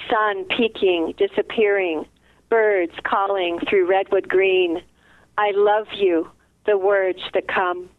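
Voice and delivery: calm, even recital of a poem; poem reading. Acted. Reads second poem aloud.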